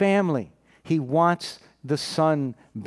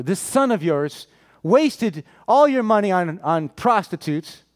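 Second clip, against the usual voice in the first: mildly indignant accusation, leaning on the words; a touch of mock outrage, slowing on the last word; retold anger; 2 semitones higher than usual. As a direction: imitate an angry brother accusing his father. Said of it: "he's angry".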